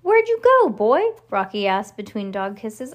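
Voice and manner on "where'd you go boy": high, loud question to a puppy; eager dog-talk. A narrator's reading. Rocky to the puppy between dog kisses, eager. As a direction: ask the dog in a swooping, raised voice.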